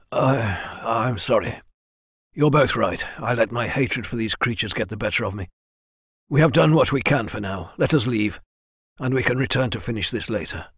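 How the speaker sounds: mildly contrite, settled tone; calmer. A narrator's reading. Leader apologising to his men, calmer. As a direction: ease off into a measured apology. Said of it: "his words were calmer".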